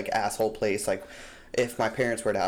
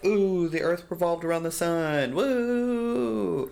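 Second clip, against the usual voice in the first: mock cheering; 7 semitones higher, slower than usual. Mock New Year celebration meme.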